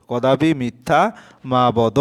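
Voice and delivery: slow, deliberate কদাপি মিথ্যা মা বদ, each word set apart; slow dictation. Shown as a demonstration. Teacher dictates the corrected answer to students, slow and deliberate. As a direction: spell out কদাপি মিথ্যা মা বদ slowly for the class. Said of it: "অর্থাৎ এখানে মা হবে".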